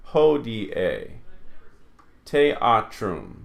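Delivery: "Hodie" with i and e as two syllables; "Teatrum" with e and a split; careful teacher's demo of "Hodie", "Teatrum"; vowels pronounced separately. Shown as a demonstration. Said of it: "pronounced separately".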